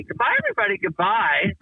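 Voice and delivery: lightly voiced rich idiot, goodbye sung out; a hint of a dopey millionaire waving off; Mr. Canby voice. Recalling his sketch character to an old friend, dopey farewell. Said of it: "he would say".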